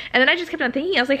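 ordinary talk, nothing marked

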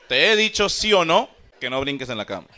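scolding mother. Retold or imitated. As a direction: play a mom laying down the law. Mother scolding in a retold scene.

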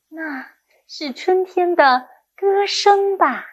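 歌声 held long and high; expressive model reading. Shown as a demonstration. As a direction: read slowly, lifting and stretching 歌声. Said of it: "重音和语气该怎么注意呢".

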